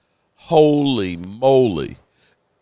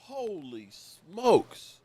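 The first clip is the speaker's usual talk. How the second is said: much softer, slow, breathed out in awe; stunned hush; 4 semitones higher, 12 dB quieter, much slower than usual. Real, not acted. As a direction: let it sink in quietly, very slowly. Stunned by the news.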